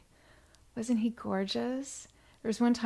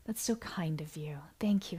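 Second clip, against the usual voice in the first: whisper; 3 semitones lower, 6 dB quieter than usual. Real, not acted. Host thanking donors on livestream.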